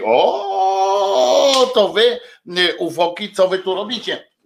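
high, surprised greeting to aliens; mock surprise. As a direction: act amazed at the aliens. Ufolog mówi do ufoków. (udawane zdziwienie)

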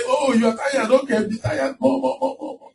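taunting problem. Retold or imitated. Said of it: "They say".

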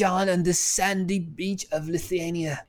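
lightly swooning romance heroine; slow, breathy mock romance read; romance novel voice. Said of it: "I wanna start writing a romantic novel".

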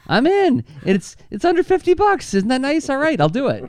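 high, bouncy pitchman; cheesy ad voice. Pretend. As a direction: sell it like a cheesy ad. Mock ad pitch again.

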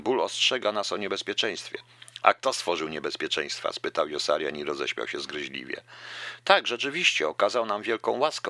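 reading a novel aloud with voiced dialogue; lively novel reading with lightly voiced characters; story narration. A narrator's reading. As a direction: read the passage like an audiobook. Reads Catch-22 excerpt aloud.

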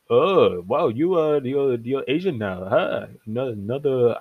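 put-on half-hearted Kim Jong-un-style Korean accent, slowing on "Asian now"; mock a dictator with a clumsy Korean accent; lightly put-on Korean accent, teasing; bad Korean accent. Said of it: "that's not even a good accent".

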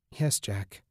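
soft, submissive mumble; mumbled. Acted. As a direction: barely get the words out. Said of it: "she mumbled".

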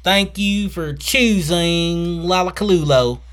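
high, slowing theme park announcement; hammy ride safety announcer. Retold or imitated.

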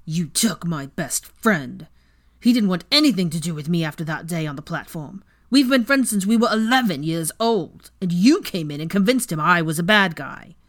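angry snarl. Acted. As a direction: snarl every word with hatred. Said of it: "an angry snarl".

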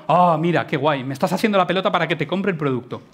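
mock sales pitch. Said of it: "No me vengas con".

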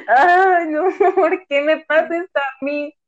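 hammed-up sob with laughter; mock wail. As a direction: whine it like a playful drama queen. Imagined despair, laughing.

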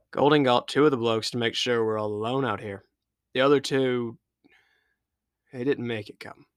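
a hint of a somber crewman; lightly voiced sailor, a touch grave; sailor's report. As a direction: crewman breaking bad news to the captain.

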